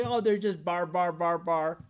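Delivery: a mild mock of Greeks jeering at foreign speech; mocking foreign babble. Greeks mocking non-Greeks' speech, lightly scornful babble. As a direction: sneer out the bar-bar sounds lightly. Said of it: "they would say".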